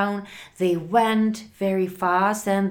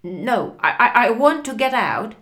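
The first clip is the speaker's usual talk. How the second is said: loud, rushed, stammering demand; panicked shout; 3 semitones higher, 6 dB louder, much faster than usual. A narrator's reading. Frank demands out of the speeding car, shouting in panic. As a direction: blurt it out in panic, raised and hurried. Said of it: "shouted Frank".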